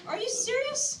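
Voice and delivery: high, laughing are you serious; laughing disbelief. Retold or imitated. To the boyfriend who ordered halal, laughing disbelief. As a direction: burst out in giggling disbelief.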